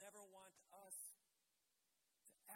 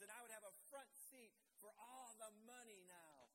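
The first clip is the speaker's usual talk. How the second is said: louder, higher mock Judas confession; a hint of a greedy Judas, pushed higher; voicing Judas; 4 semitones higher, 4 dB louder than usual. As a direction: play the scheming betrayer, half-acted. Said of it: "He was pretending to love Jesus".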